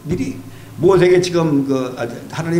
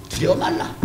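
"두려워 말라" high but much softer; soft reassurance; 8 semitones higher, 5 dB quieter than usual. Shown as a demonstration. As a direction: murmur "두려워 말라" gently.

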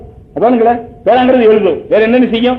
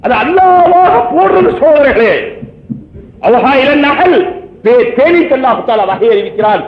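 earnest preaching; 3 semitones higher than usual. Real, not acted. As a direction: proclaim it to the congregation with conviction. Solemn declamation in a sermon. (உறுதியான பிரசங்கக் குரல்)

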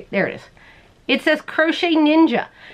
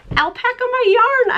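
much higher, slow, cutesy pun read; silly high voice; 12 semitones higher than usual. Acted. Showing the alpaca button to viewers in a silly high voice. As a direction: squeak the pun out playfully.

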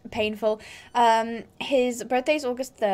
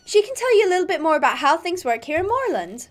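lightly put-on American accent; 3 semitones higher than usual. Stable girl talking up the summer camp, light American accent. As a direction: welcome them in a hint of an American accent.

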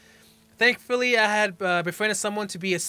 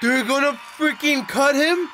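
higher and louder, an alarmed question; shocked disbelief; 7 semitones higher, 4 dB louder than usual. Real, not acted. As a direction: blurt it out, appalled at what you see. Shocked reaction to the footage.

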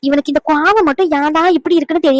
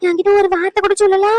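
shocked disbelief; 6 semitones higher than usual. Acted. Grandmother shocked by hidden news.

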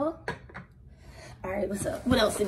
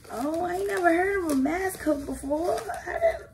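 surprised laughing exclaim; 6 semitones higher than usual. Real, not acted. Surprised by mask hook.

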